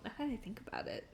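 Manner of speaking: soft fast whisper; whispered aside. Real, not acted. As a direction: toss it off under your breath.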